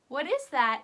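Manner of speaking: excited question. Shown as a demonstration. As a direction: ask it like a big surprise reveal. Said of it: "teacher asks the children".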